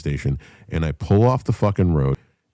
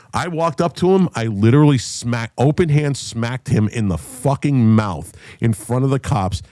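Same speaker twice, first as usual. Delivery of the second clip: ordinary talk, nothing marked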